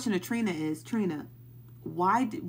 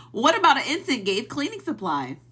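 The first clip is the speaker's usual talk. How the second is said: louder, higher exasperated yell; yelling the question; 5 semitones higher, 5 dB louder than usual. Real, not acted. Yelling her question about incense at the chat, exasperated. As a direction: shout the question at the screen. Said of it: "I'm yelling that question".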